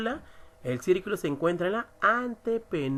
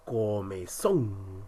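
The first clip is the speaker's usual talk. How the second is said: comezón with a long, weighted "zón"; stress on final syllable; 7 semitones lower, much slower than usual. Shown as a demonstration. Teacher showing an aguda ending in N, comezón stressed on "zón". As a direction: draw out the last syllable of comezón. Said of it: "la mayor fuerza de voz está en son".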